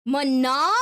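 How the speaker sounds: Mono? said loud and rising in disbelief; incredulous rising Mono?; baffled echo. Real, not acted. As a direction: throw back Mono? in confusion. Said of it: "What do you mean, nah?".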